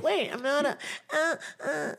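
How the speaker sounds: high-pitched cartoon heroine, lightly done; a hint of a musical princess with little vocalized notes; Little Mermaid. Wife doing a mermaid impression, high and playful. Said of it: "That was my Little Mermaid impression".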